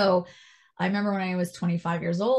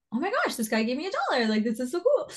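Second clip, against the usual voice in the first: put-on excited kid; 8 semitones higher than usual. Childlike excited retold thought.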